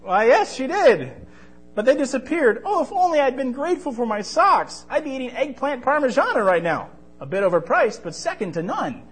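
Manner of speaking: put-on high, loud, dramatic boy voice; lamenting boy. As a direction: wail over the lost socks. Marvy laments lost socks.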